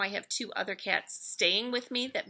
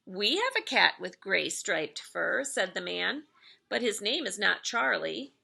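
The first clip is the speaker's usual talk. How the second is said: gentle read-aloud storytelling voice; lightly lilting storybook narration; story narration. A narrator's reading. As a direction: read it like a bedtime story for kids. Reads picture book aloud.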